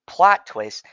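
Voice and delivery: loud, high reveal; dramatic announcement. Real, not acted. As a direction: announce it like a big twist.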